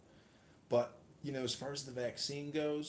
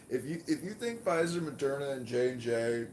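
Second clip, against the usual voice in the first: raised, higher voice, pushing hard; rising indignation, almost shouting; heated outburst; 3 semitones higher, 6 dB louder than usual. Real, not acted. Heated rant about vaccine makers.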